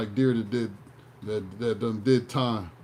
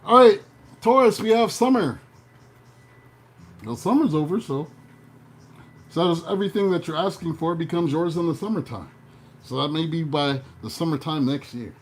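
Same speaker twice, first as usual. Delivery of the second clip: hammed-up horoscope read, slowing on the big news; horoscope reader impression. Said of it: "I was getting my Tony Baker on".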